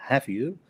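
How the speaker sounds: "have you" with a rising tune; "have you" lifted at the end; rising tag. Shown as a demonstration. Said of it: "en vez de decir".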